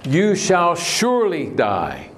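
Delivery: slow it down and punch "surely" like a final verdict; emphatic. Shown as a demonstration. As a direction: stress on surely, slow and weighty. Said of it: "that's emphatic".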